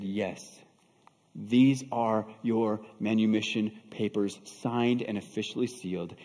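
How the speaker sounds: patient reassurance. Acted. Buyer patiently reassures the disbelieving woman.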